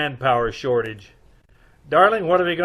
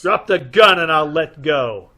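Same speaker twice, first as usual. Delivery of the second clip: stern command; 7 dB louder than usual. Acted. Commanding the gunman.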